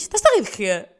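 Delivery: mock stern challenge; deadly serious child. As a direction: imitate a kid who is dead serious. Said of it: "drop dead serious". (imitação de miúda muito séria)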